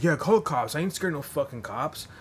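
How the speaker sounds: high, loud mock bravado; mock defiance. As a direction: dare him to call the cops. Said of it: "he's like".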